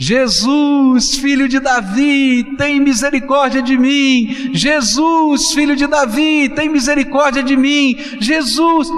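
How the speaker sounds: put-on slow, very high, drawn-out calling out. Speaker asks listeners to imagine the scene of the blind man crying out, imitating Bartimeu shouting. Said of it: "começa a gritar".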